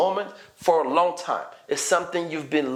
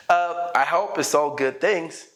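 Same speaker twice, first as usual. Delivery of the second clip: joking; 3 semitones higher than usual. Shown as a demonstration. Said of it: "smile and jokingly say".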